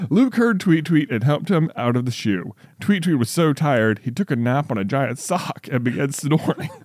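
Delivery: deliberate, lilting storybook reading; story read-aloud. Real, not acted. Reads child's story aloud.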